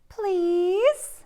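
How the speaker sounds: high, whispered plea; whispered please. Acted. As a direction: beg in a tiny whisper. Pigeon pleading for the bus.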